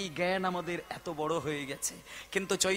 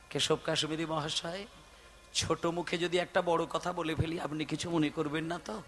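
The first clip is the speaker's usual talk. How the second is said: humble and soft; 3 semitones lower, 5 dB quieter than usual. Acted. Humble Nimai asks permission.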